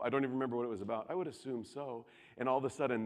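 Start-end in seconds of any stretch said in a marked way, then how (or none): 1.1-2.0 softly imitating a calm father. Father replying to his angry son, calm. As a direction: answer quietly, without any heat. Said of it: "in his calm voice".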